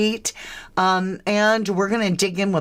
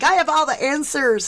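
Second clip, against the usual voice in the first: lightly mocking, higher-pitched boast; know-it-all YouTube creators; 6 semitones higher, faster than usual. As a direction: lightly imitate creators who claim every answer. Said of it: "most YouTube creators come on here and they're like".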